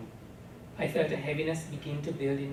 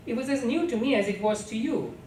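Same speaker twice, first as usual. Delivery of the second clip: defensive pleading; 6 semitones higher, 3 dB louder than usual. A narrator's reading. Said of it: "Amma cried defensively".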